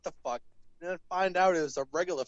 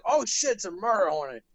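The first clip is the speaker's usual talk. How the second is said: higher, mock-panicked exclamation; retold freak-out; 3 semitones higher, 4 dB louder than usual. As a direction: blurt it out as if retelling a sudden fright. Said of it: "I flipped the fuck out".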